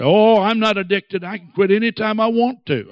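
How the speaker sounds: high, dismissive mock protest; mimicked smoker in denial. Preacher mimics smokers denying addiction, high-pitched and dismissive. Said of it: "you hear people say".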